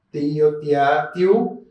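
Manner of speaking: tío, tia, tiu drawn out slowly, each one apart; slow syllable drill. Shown as a demonstration. Teacher spelling out sounds slowly for the class. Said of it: "suena como sio".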